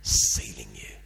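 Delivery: low, hushed, confiding whisper; a lightly voiced kind leader murmuring softly; gentle leader. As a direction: tell the boy gently, almost under your breath. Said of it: "and he said".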